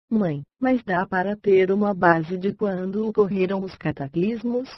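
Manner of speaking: synthetic computer reading voice, bright and even; chipper text to speech voice. Real, not acted. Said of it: "Voz sintetizada, I B M Voice, voz Raquel". (voz sintetizada animada)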